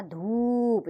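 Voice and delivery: धूप said slowly with the long ऊ drawn out; stretched vowel. Shown as a demonstration. Teacher shows the long ऊ in धूप. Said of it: "इसमें खिंचाव होगा".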